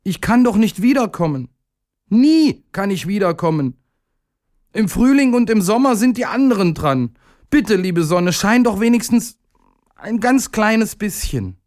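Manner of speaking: very high, distressed little voice; high-pitched imploring; desperate pleading. A narrator's reading. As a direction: beg as if it is your only chance. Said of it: "war ganz verzweifelt".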